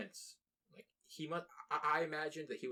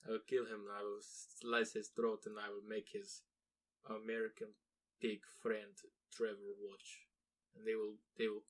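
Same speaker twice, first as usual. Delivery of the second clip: put-on a jokey Russian hitman accent; mock Russian assassin; 3 dB quieter than usual. Russian hitman vows revenge, mock menacing Russian accent. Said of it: "I don't know why they're Russian".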